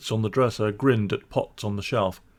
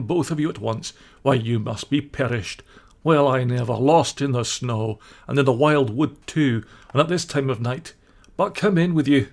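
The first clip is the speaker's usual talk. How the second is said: higher, hearty kindly badger; warm welcome; 3 semitones higher, 4 dB louder than usual. Badger ushers the cold friends in, kindly. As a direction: fuss over the lost little ones. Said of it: "in quite a different voice".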